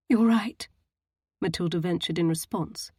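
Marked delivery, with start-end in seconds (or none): 0.1-0.7 quaking voice. A narrator's reading. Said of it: "her voice quaking".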